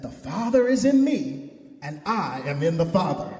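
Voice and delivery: emphatic, measured pulpit reading of scripture. Acted. Preacher reading Gospel verses to congregation, emphatic scripture reading. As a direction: proclaim the passage, stressing key words.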